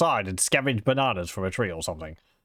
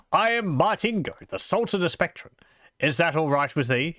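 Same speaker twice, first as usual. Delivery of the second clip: high, grand self-announcing sultan voice; a noble showing off his title; pompous nobleman; 6 semitones higher than usual. Acted. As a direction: puff up like a vain mad sultan. Martingo introduces himself grandly.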